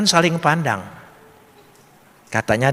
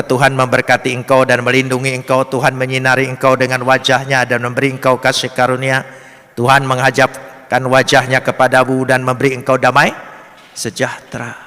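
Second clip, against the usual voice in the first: level, unbroken read-out on one tone; recited blessing. Shown as a demonstration. (membacakan berkat dengan nada datar tanpa jeda)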